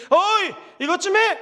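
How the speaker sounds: husband rudely ordering his wife around. Shown as a demonstration. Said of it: "이러면 안 됩니다".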